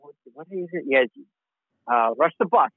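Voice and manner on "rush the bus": lightly done New York accent; a hint of a New York accent. Shown as a demonstration. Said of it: "can you say Rush the bus in your heaviest made up New York accent".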